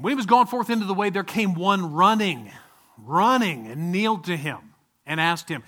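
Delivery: solemn Bible reading, stretching running; scripture reading. Acted. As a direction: read the verse with weight.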